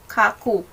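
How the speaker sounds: KAKU with a hard k in both syllables; wrong double K. Shown as a demonstration. Teacher shows another misreading, KAKU with two hard k's. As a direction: hit both k sounds in KAKU. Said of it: "Hindi rin siya".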